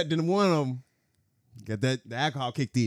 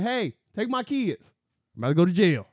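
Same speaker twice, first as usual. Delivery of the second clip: mock tough mom; 5 semitones higher than usual. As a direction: hand off the kids before a fight. Repeat of quote.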